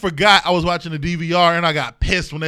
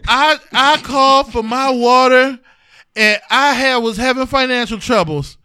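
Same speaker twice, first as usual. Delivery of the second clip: a touch louder, earnest infomercial witness; mock testimonial; 4 semitones higher, 6 dB louder than usual. Retelling a water infomercial, mock earnest testimonial voice. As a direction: play the grateful testimonial caller.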